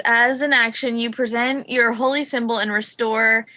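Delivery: slow, careful rules reading; reading aloud. Shown as a demonstration. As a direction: read the ability text out slowly. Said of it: "my channel divinity says".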